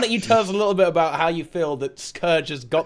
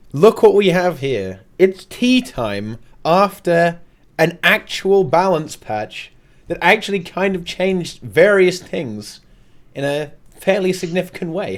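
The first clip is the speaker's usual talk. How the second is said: slow, drawn-out host announcement; show host intro; slower than usual. Acted. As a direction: welcome the audience like a showman.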